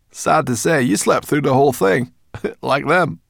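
high, loud brownie teasing; laughing brownie. A narrator's reading. Sorrel teasing the sleepy dragon, high and loud. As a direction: tease him with a chuckle.

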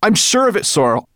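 high, loud insistence; excited cry. A narrator's reading. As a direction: call it out with excited certainty. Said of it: "cried Ben".

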